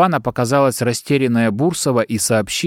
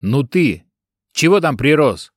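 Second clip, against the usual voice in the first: shouting; 3 semitones higher than usual. Acted. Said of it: "крикнул на Паху Сильвер".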